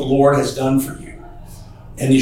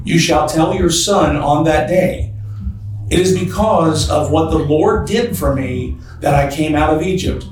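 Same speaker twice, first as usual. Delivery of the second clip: scripture reading. Acted. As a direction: read the verses with weight. Reads scripture aloud in sermon.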